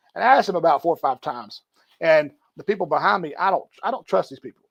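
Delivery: plain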